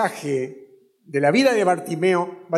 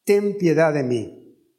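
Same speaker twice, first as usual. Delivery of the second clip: mock cry to Jesus. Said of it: "Él gritaba".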